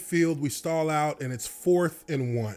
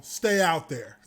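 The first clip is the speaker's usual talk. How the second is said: coach's call said through a laugh; laughing quote; slower than usual. Retold or imitated. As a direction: chuckle through the coach's words. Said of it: "does the old signal".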